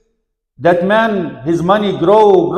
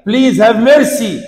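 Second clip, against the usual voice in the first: higher, slow appeal without real tears; retold crying plea; 5 semitones higher, 4 dB louder, slower than usual. Wazir cries to the caliph from the box, retold pleading. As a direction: stretch out a raised plea for mercy. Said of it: "He used to cry".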